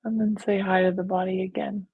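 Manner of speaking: calm, even meditation guide; guided meditation. Real, not acted. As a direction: lead them gently, with long pauses. Leads a guided visualization.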